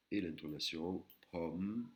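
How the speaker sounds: "pom" slowly rising then falling; rise-fall tone demonstration; Thai tone. Shown as a demonstration. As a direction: lift and drop the tone on "pom". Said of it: "qui monte et qui redescend".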